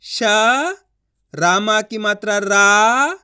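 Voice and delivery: slow spelling-out with held sounds; letter by letter. Shown as a demonstration. Teacher sounding out the next word, slowly. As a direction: stretch "श", "रा", "र", pausing between. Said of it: "एक एक अक्षर का उच्चारण".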